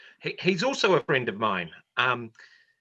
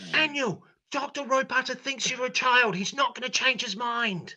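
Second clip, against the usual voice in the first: high teasing voice; 10 semitones higher than usual. Acted.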